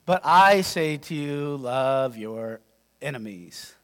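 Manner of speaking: soft, weighty delivery of the command; hushed solemn. Shown as a demonstration. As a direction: let the words fall to a hush. After long pause, hushed.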